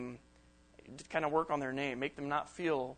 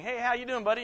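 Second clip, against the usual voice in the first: bright, higher mock-friendly hello; cheery greeting; 7 semitones higher, 4 dB louder than usual. Speaker acting out greeting a friend, cheerful and higher.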